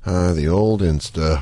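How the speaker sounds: low, weary tone. Shown as a demonstration. Host contrasting tones of the old Insta, low and dragged. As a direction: drop it way down and drag it out. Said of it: "Or do you go".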